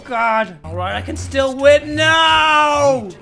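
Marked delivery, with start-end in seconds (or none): 2.0-3.1 loud, anguished repeated no; desperate shouts. Real, not acted. Gamer yelling as the game goes wrong. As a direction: wail it like you're losing everything.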